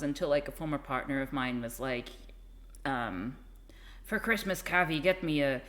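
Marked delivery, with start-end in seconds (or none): 4.0-5.6 lightly imitated Irish accent. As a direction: quote a former partner in an Irish accent. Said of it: "I don't have to do the accent".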